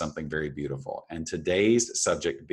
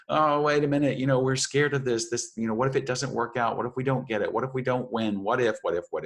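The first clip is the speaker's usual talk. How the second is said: put-on high, anxious childlike voice; the fearful inner kid fretting; scared little child; 8 semitones higher, 4 dB louder than usual. Inner child fretting about trying something new, high and worried. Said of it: "your little self going".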